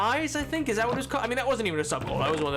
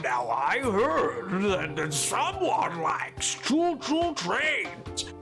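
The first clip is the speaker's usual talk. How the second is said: mall Santa voice; much slower than usual. Retold or imitated. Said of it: "tell me, like".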